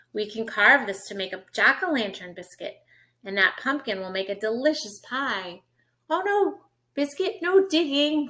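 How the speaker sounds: bright, lilting picture-book read; reading to children. Acted. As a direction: read it like storytime for a toddler.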